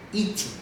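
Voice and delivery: "Eating" with a silent G; final N sound. Shown as a demonstration. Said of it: "sempre termina com o som de N".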